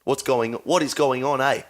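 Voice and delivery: rough South African accent, drifting Kiwi; badly faked South African accent; South African accent attempt. Shown as a demonstration. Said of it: "I could probably do a South African accent".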